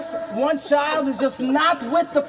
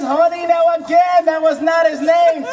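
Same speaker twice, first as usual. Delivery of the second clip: raised voice calling honey; loud wife's call; 2 semitones higher, 5 dB louder than usual. Retold or imitated. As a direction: call out to the husband. Wife calling husband.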